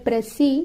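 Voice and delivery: "précis" in two slow, separate syllables; pronunciation demo. Shown as a demonstration. Teacher showing learners how it is pronounced, "précis" syllable by syllable. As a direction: say "précis" carefully as pray, then see.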